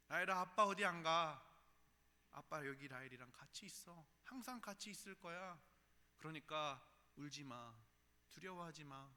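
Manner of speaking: loud earnest opening, then softening; earnest reassurance. Retold or imitated. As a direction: plead with her not to be afraid. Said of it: "그렇게 이야기하는데".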